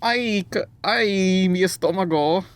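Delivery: squeaky, high Mexican cartoon character; high-pitched cartoon voice. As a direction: whine in a high mock cartoon voice. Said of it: "in a high-pitched voice".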